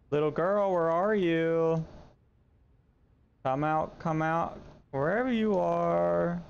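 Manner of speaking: put-on slow, drawn-out calling to a hidden child; creepy sing-song calling. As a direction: coax the ghost out, slow and teasing. Calling out to ghost girl.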